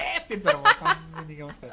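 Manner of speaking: high-pitched, hyped-up delivery; giddy, laugh-tinged excitement; overexcited. Real, not acted. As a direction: say it with sudden high energy. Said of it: "なんでそんなテンション高いの？".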